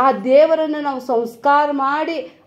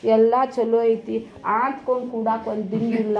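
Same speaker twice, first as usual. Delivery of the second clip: amused rich man; 2 semitones lower, 3 dB quieter than usual. Retold or imitated. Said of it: "ಅವನಂದ ಅಂತ್ರಿ".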